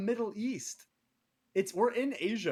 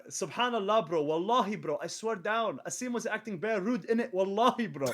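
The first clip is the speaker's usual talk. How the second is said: put-on London roadman accent; 3 semitones higher than usual. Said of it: "That is what they sound like".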